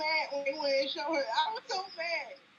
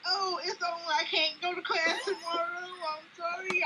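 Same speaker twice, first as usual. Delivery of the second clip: half-laughing, half-crying outburst; retold thrill with a catch in the voice; tearful excitement; 4 semitones higher than usual. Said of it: "I was like".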